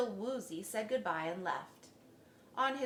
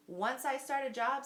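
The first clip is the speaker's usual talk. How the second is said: firm, louder resolve; firmly; 6 semitones higher, 5 dB louder than usual. A narrator's reading. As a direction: state it with no doubt. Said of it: "said the dentist firmly".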